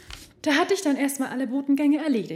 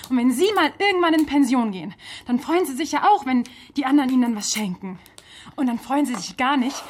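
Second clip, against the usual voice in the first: louder, higher, lecturing reproach; indignant scolding; 3 semitones higher, 5 dB louder than usual. Acted. Frau Aslan scolds the official about the gift money, indignant and loud. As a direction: tell him off for not chipping in.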